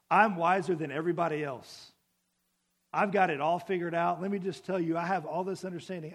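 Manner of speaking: loud, chest-beating brag; mock boastful. Psalmist imagined beating his chest, in a loud mock brag. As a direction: puff up like a know-it-all. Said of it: "beating his chest going".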